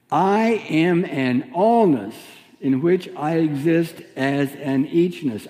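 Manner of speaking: slow first-person affirmation, leaning on "allness" and "eachness"; emphatic affirmation; stress on allness and eachness. Shown as a demonstration. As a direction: press "allness" and "eachness" firmly. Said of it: "let's turn that into a first person".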